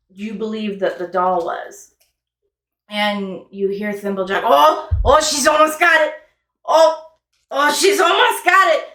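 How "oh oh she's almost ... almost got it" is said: high and loud, eager little cheer; root for her as she nearly wins; excited cheering. Acted.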